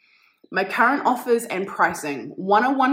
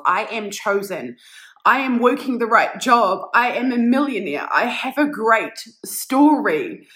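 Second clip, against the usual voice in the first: slow, emphatic affirmation chant; powerful, deliberate self-affirmations; 3 dB louder, slower than usual. Real, not acted. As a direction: declare each line like a vow, louder. Reads affirmations aloud.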